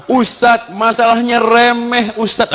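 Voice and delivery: high, slow mock woman's plea; drawn-out, high-pitched imitation of a wife; imitated complaining woman. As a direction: mimic a woman confiding her trouble to the ustadz. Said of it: "Perempuan mengatakan".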